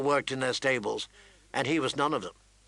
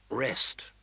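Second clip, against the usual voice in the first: soft whispered word; 3 semitones lower, 4 dB quieter than usual. Acted. Son whispering to his mother to rest. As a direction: breathe it to her gently. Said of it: "he said gently".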